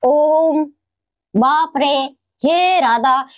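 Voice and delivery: ओम, बाप रे, हे राधा with the final vowel held long; prolonged vowels. Shown as a demonstration. Teacher demonstrates drawn-out pluta vowels to the class. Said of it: "जैसे".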